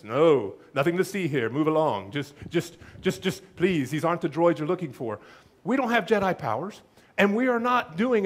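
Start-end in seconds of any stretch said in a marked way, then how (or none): 0.0-5.2 a hint of Obi-Wan waving them off; Obi-Wan mind trick. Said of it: "Obi-Wan comes up and he says".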